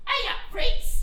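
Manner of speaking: high, bright call of hello; cheery greeting. Pretend. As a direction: sing out the greeting loud and high. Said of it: "and go".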